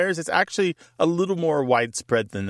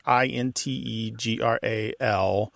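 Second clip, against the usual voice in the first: slow, letter by letter: I N T E G R A L; carefully spelling the word for the caller; spelled out; 3 semitones lower, slower than usual. Shown as a demonstration. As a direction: spell integral out letter by letter, unhurried. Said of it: "spelling the word out".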